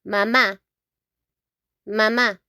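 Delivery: mamá with stress on the final má; teacher modelling mamá; Spanish pronunciation. Shown as a demonstration. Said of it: "we say".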